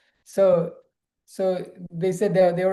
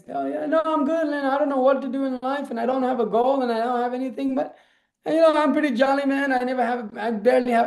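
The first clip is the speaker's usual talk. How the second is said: lightly voiced surfer dude, pitched higher; carefree jolly dude; 5 semitones higher than usual. Teller imitating the jolly guest to friends, higher carefree dude voice. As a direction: mimic the guest's easygoing 'I'm good, man' tone. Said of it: "He's like".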